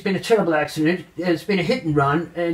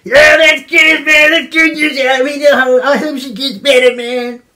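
mock cheerful shout; 9 semitones higher, 10 dB louder than usual. Anchor hears the nurse's report and shouts back, overjoyed. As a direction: blurt it out way too loud.

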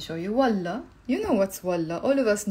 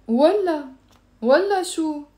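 raised, falling والله, then والله شو; scornful refusal; 5 semitones higher, 4 dB louder, faster than usual. Shown as a demonstration. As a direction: dismiss someone with a higher, firm والله. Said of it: "the tone of your voice sets the direction".

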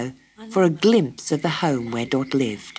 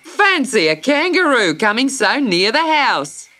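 mildly surprised, a touch raised; surprised exclamation; 8 semitones higher, 3 dB louder than usual. Acted. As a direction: remark on it with mild astonishment. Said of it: "he exclaimed".

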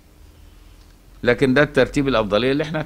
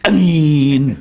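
loud, higher آمين, blurted out; mocking loud amen; 4 semitones higher, 5 dB louder, much slower than usual. Sheikh mocking a loud worshipper's harsh amen. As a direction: blast آمين out in mock imitation. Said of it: "يجي لك ... يقول لك".

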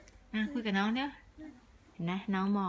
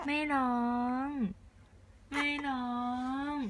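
drawn-out, higher soothing words; soothing coo; 4 semitones higher, slower than usual. Real, not acted. Parent soothing crying baby.

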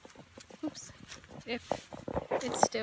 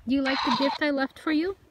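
raised voice, lifting into a question; calling out kindly; 3 semitones higher, 6 dB louder than usual. Real, not acted. Visitor asking child spirit about gift, calling out kindly. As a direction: ask a little one if they like it.

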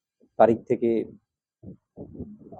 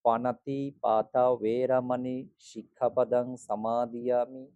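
full recitation. Shown as a demonstration. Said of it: "পুরোটা আমি একবার বলছি".

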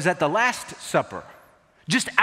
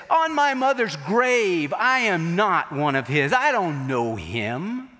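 sworn denial; slower than usual. Retold or imitated. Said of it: "like he said".

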